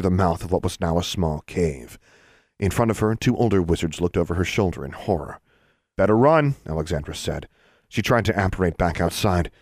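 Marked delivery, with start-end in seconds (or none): 6.0-6.5 warning. Acted. Warning two wizards.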